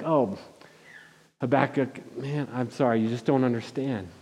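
soft, gentle, consoling voice of God. Retold or imitated. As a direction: softly comfort a confused friend. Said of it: "he's very gentle with Habakkuk".

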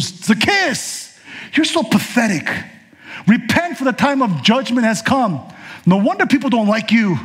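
a high, mocking scold of a preacher; scornful rebuke. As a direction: sneer it down at him. Jesus imagined scolding Zacchaeus.

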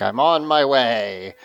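slow, lightly menacing villain voice; a hint of a creepy henchwoman; scary voice. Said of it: "in her scary voice".

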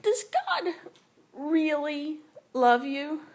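high, slow, sly serpent voice; serpent whisper. Acted. Serpent coaxing the woman in the garden, high and slow. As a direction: draw it out like a tempting snake. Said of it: "the serpent whispered".

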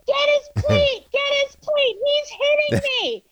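high-pitched retold shouting; shouting for help. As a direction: yell at the crowd to get his plate. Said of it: "And I'm like".

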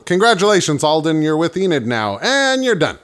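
high mock game-show host; mock announcer.

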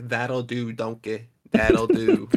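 lightly attempted Scottish accent; bad Scottish accent. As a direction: have a rough go at a Scottish accent. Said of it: "even I wanna do the Scottish accent".

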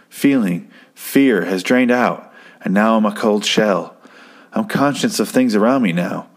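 measured recitation with pauses between phrases; voiceover monologue. Retold or imitated. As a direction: recite it like a film's inner monologue. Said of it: "kinda does this, uh, voiceover".

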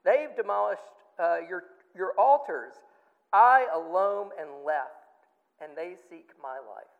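loud, emphatic prophet's complaint; condemning appeal. Retold or imitated. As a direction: cry out an accusation to God. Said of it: "he's condemning Israel".

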